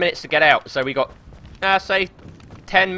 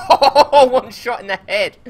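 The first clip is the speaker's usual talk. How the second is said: sudden high yelp of surprise; a loud gasp of surprise at a sudden kill; surprised shout; 8 semitones higher, 8 dB louder than usual. Real, not acted. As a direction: blurt it out, startled and loud.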